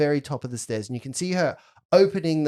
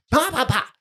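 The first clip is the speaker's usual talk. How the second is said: mock wand zaps; 11 semitones higher, 4 dB louder than usual.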